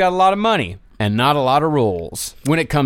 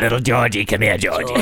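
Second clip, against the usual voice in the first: cooing at a dog; 5 semitones lower, faster than usual. Acted. Calling the dog sweetly.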